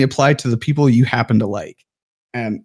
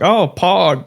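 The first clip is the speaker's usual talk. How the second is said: excited; 6 semitones higher than usual. Retold or imitated. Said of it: "you're like".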